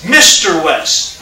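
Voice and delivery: slowly drawn-out, lightly voiced respectful child; a hint of deferential Southern youngster, words stretched out; respectful Southern kid. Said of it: "how kids talk to adults in the South that are respectful".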